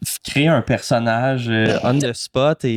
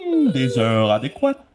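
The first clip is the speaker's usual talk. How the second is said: put-on pompous caller; over-the-top character. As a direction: muse theatrically over the information. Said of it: "j'étais en gros personnage". (gros personnage songeur)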